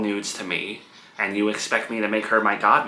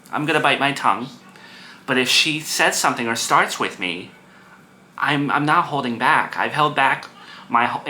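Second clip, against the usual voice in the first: louder, rising indignation; heated venting; 3 semitones higher, 4 dB louder than usual. Real, not acted. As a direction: vent with defiant anger. Venting about sister, heated.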